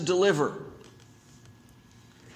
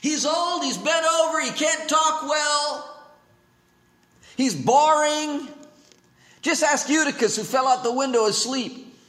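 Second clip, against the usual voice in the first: mocking critic; 5 semitones higher than usual. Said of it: "Dan said".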